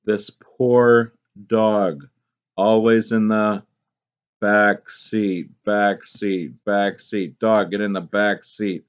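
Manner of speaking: slow, pitying over the poor dog; mock pity. Shown as a demonstration. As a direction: pity the dog stuck in back seat. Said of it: "What this poet is trying to emphasize".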